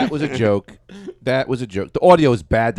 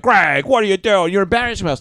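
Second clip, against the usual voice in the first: mock scolding; 9 semitones higher, 3 dB louder than usual. Everyone at the party chiding their friend, mock scolding. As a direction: imitate mortified friends telling him off.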